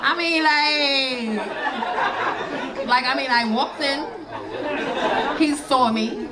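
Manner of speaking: put-on slow, lazy teen drawl; extra teen daughter. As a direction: draw it out with attitude. Daughter voiced slowly.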